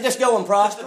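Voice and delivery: mildly sarcastic quote. Acted. Prophet telling the king what he wants to hear, mildly sarcastic. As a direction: toss it off as false encouragement. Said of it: "Well, he's being sarcastic".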